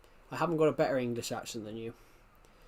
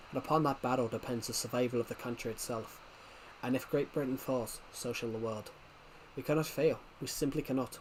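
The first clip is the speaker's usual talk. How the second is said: book quote reading. Shown as a demonstration. Reading viewers a quote from own book, measured delivery. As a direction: read it out as a grave rallying speech. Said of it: "find a quote from my book".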